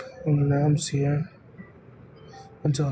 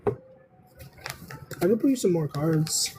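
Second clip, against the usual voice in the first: slow drawn-out offer; much slower than usual. Acted. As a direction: stretch each word out, very slow. Slow drawled offer to viewer.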